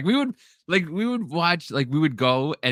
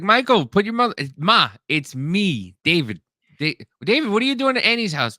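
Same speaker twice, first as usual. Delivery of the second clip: high, loud bewildered mom voice; confused mother; 8 semitones higher, 4 dB louder than usual. Retold or imitated. Mother on the extension line, high confused scolding. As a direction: mom mixes up her kids. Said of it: "she'd be like".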